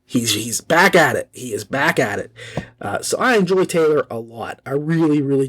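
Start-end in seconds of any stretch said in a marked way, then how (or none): 0.0-2.3 hushed, lower happy relief; delighted fan. Retold or imitated. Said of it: "you're like".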